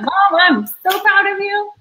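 imitating a proud child. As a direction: play a kid beaming at mom. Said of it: "I'd be like".

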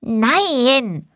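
put-on high, drawn-out child's no; a small boy recoiling in disgust; boy refusing berries in a disgusted child's voice. A narrator's reading. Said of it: "rümpfte angewidert die Nase".

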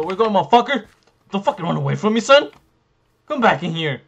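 loud, high battle yelling; aggressive shouting. Real, not acted. Player chasing a fleeing opponent, shouting aggressively. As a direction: shout after someone who is getting away.

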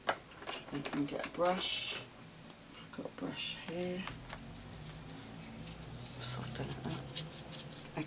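hushed, unvoiced self-talk while busy; quiet whisper to self while fetching a brush; whispered aside. Real, not acted. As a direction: murmur to yourself, slowly, under your breath. Crafter murmuring to self while working.

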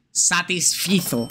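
teaching chat how to say "Satisfizo", slow and clear; slow clear demo. Shown as a demonstration. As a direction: teach the word "Satisfizo" by stretching every syllable.

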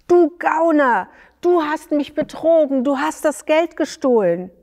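high, loud, fast accusing yell; sly shout. Acted. Dayan falsely accusing his partner at the tree, shouting slyly. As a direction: scream the accusation like a cunning cheat. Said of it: "Da schrie Dayan verschlagen".

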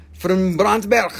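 "Brandberg" slow and loud with a hard guttural ending; overdone guttural "Brandberg"; throaty BRANDBERG. Pretend. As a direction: draw out "Brandberg" and end it in a throaty rasp. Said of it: "I have to clear my throat".

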